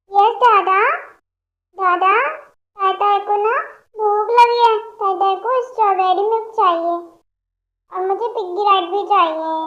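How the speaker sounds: put-on a little girl begging for milk and a piggyback; demanding toddler. Childlike patient asks for treats.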